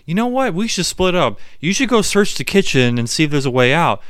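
hammed-up high voice proposing the plan; mock-smart plan voice. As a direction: act like the genius with a plan. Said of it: "And Arby's like".

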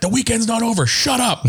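very high whiny comeback; high mock retort. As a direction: snap back in falsetto. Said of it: "He's like".

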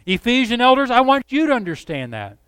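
Paul urging the Corinthians, passionate. Retold or imitated. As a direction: plead with them to get it. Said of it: "He's passionate about it".

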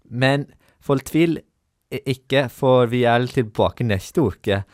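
lightly put-on baby talk, slowed right down. Presenter signing off as a penalty, half-hearted baby talk. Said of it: "på babyspråk".

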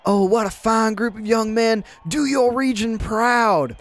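booming dignified praise; President Summers voice. Acted. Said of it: "you all hear President Summers say".

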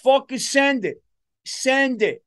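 loud, high, wild warmonger voice; trigger-happy guy. Acted. Reckless guy yelling to blow a country up, loud and high. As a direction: yell it like a reckless guy eager to bomb. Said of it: "just having a guy like".

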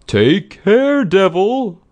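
high, loud threatening cry; shouted warning. A narrator's reading. Friend warns the raging woman.

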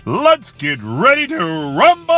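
booming ring announcer, building to a roar; WWE announcer voice. Pretend. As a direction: hype it up like a wrestling ring announcer. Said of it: "I'm gonna do my W W E announcer voice".

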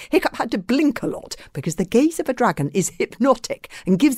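expressive storybook reading; story narration. A narrator's reading. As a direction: read aloud to children, savouring the details.

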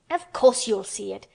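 loud, impatient retort; indignant snap. A narrator's reading. Mary cuts short Colin's hysterics, snapping indignantly. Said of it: "snapped Mary indignantly".

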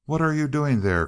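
high, loud angry cry. A narrator's reading. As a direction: shout the question at him. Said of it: "cried he".

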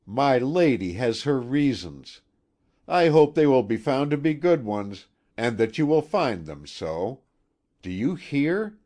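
loud, bitter warning called after him; vengeful maid calling out a warning; parting threat. A narrator's reading. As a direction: hurl the words after him. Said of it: "she sent her parting words after him".

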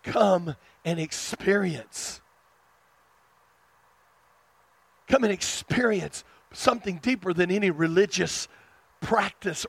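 gentle invitation of Jesus. Acted. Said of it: "He was saying".

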